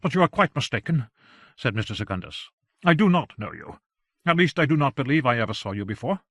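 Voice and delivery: lightly acted flustered denial; lightly voiced protesting gentleman. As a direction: deny it with brave, mild insistence. Plays Secundus denying acquaintance.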